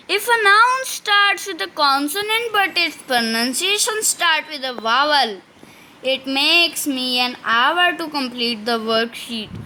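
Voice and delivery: slow, spelled-out reading of the rule; slow dictation reading. Shown as a demonstration. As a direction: read it out word by word for students to copy. Teacher dictating rule slowly. (धीमी श्रुतलेख शैली में पढ़ना)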